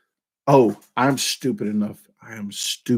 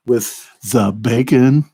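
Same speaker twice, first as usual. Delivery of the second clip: mumbled hillbilly drawl; 3 dB louder, slower than usual. Shown as a demonstration. Mukbang vlogger testing a mic, slow Sling Blade drawl. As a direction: drag it out like Karl from Sling Blade. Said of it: "the second one sound better?".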